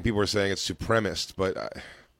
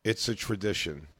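words round a pen in the mouth; pen in teeth; 2 semitones higher than usual. Real, not acted. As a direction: talk with a pen between teeth. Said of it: "there's a pen in my mouth".

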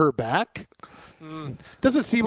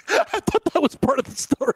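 higher, incredulous right after a laugh; surprised disbelief; 13 semitones higher than usual. Real, not acted. Co-host reacting to a crude claim, surprised. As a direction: caught off guard, still laughing inside.

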